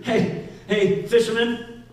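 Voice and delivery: lightly voiced call to a fisherman. Jesus calling Simon from the shore, light and friendly.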